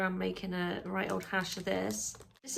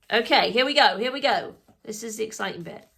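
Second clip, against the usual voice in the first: ordinary talk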